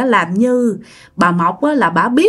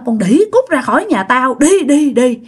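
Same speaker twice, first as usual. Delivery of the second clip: furious cursing; 3 semitones higher than usual. Retold or imitated. Angry mother cursing the couple out of her house. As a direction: drive them out of the house with curses. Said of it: "Bắt đầu bà chửi quá trời".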